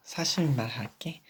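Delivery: whispered confession. Acted. Telling Piggy the truth, whispered. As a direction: whisper it gently.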